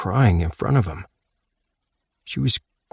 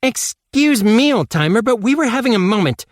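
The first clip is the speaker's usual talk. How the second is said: shouted; 13 semitones higher, 5 dB louder than usual. Acted. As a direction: yell at him to butt out. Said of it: "shouted Casey".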